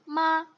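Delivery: short माँ falling from high; fourth-tone माँ, brief. Shown as a demonstration. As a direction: drop माँ from a high start. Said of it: "हर tones के साथ".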